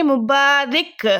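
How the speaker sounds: مبارک said as mubarik, slow and careful; slow dictation. Shown as a demonstration. Teacher to students, slowly dictating the word. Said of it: "اس کو کیا بولتے ہیں؟".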